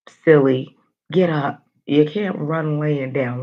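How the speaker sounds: loud scolding call to a movie character; yelling at the screen. Retold or imitated. Viewer yelling at the horror movie, loud scolding. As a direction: shout at the screen to get up. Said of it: "You're yelling at the movie".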